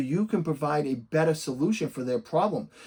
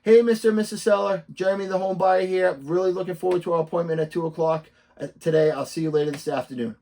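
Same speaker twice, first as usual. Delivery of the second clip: upbeat video greeting; 3 semitones higher, 4 dB louder, faster than usual. Shown as a demonstration. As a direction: launch brightly into a message for clients. Demonstrates another video text.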